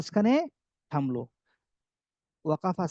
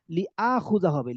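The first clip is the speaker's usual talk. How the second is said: slow dictation. Shown as a demonstration. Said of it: "teacher dictating slowly".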